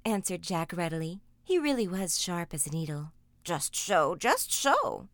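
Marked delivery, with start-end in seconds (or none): 3.4-5.1 chuckling. A narrator's reading. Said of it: "chuckled the queer little old man".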